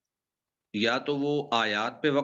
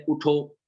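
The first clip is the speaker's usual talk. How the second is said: اٹھو said alone as a command, then a stop; pause after اٹھو; 3 semitones higher than usual. Shown as a demonstration. Teacher shows where to pause in the sentence, stopping after اٹھو. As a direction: halt right after اٹھو. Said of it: "آپ تھوڑا سا ٹھہر جائیں".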